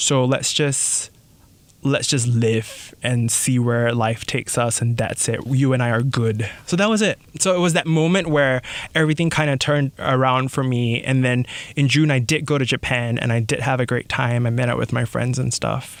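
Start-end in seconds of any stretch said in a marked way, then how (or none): none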